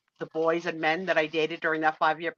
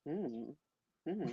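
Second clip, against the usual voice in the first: imitated moaning; 3 semitones lower, 13 dB quieter than usual. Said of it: "a little, like".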